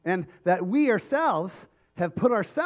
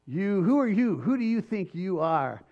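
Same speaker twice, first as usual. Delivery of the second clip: defiant sneer. Pretend. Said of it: "or people say".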